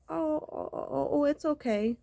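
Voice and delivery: high, mocking soothing coos. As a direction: imitate her hollow comfort in a high voice. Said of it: "you are just like".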